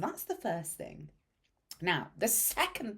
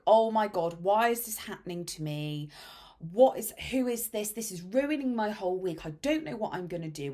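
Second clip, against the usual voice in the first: lightly voiced past panicking self; hammed-up self-pity rant; a touch of frantic panic; mock panic; 5 dB louder than usual. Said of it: "I would have been like".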